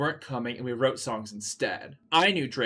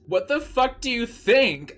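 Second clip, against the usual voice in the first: much higher, louder snap; angrily; 10 semitones higher, 4 dB louder than usual. Acted. Ebony snapping at Bloody Mary, high and loud. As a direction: lash out at her. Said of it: "I asked angrily".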